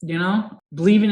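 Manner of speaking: high, loud imitation of weeping; mock crying. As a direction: wail it like an overwhelmed crier, mockingly. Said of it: "he's all, like, crying and stuff".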